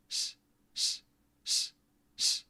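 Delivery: soft "sh" with the tongue near the front teeth; practising a soft sh. Shown as a demonstration. Drilling the Polish soft sh after the tutor's explanation. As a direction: hiss a palatal "sh", almost smiling. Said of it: "tongue near the front teeth almost smiling".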